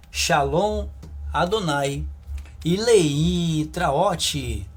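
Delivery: slow, drawn-out farewell blessing; ceremonial sign-off. Real, not acted. Teacher blesses viewers until the next lesson, drawn-out sign-off. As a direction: stretch the closing words out with emphasis.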